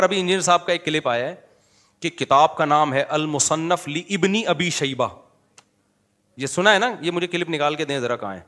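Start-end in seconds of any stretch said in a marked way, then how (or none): 3.9-5.1 "لابن" read slowly as li-ibni, alif sounded; over-separated reading. Retold or imitated. Teacher reading out a clip's book title, over-separated. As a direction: quote "لابن ابی شیبہ" slowly with an extra i after li. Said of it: "لوگ اس کو غلط پڑھتے ہیں".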